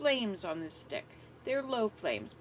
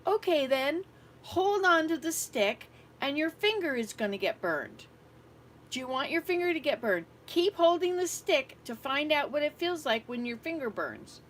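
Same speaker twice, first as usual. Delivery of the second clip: higher, louder, fed-up warning; exasperated scolding; 5 semitones higher, 6 dB louder than usual. Retold or imitated. Grandmother retelling scolding the stubborn girl, fed-up warning. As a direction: give up and scold her sharply.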